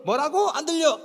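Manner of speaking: high-pitched, comic can't-hear-you call. Retold or imitated. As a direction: pitch it up over the noise, imitating. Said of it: "자기도 목소리 톤을".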